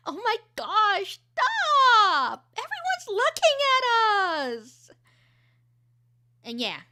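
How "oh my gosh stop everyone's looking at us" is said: high, loud giggling protest; teen mortified in public, laughing; embarrassed laughing. Shown as a demonstration. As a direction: laugh while begging them to stop. Embarrassed laughing girl in reel.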